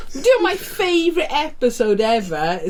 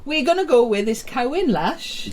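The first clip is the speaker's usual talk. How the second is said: put-on Welsh accent. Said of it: "I can't do a Welsh accent".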